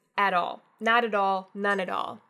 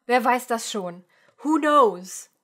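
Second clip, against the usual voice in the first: throwing up hands; 7 dB louder, slower than usual. Shown as a demonstration. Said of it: "verbally throwing up your hands".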